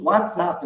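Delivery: "WhatsApp" as one joined word. Shown as a demonstration. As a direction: run what's and up together in "WhatsApp". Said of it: "Quer dizer, eles juntam". ("WhatsApp" com as palavras emendadas)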